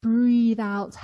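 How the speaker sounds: loud cue. Shown as a demonstration. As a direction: call it out big. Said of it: "One more time".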